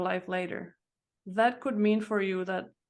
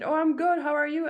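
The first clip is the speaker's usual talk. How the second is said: mock toddler reply; 7 semitones higher, 5 dB louder, faster than usual. Answering the teacher's toddler greeting.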